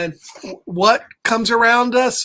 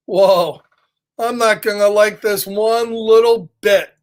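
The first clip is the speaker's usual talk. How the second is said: scared pigeon. Acted. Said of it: "He looks a little scared".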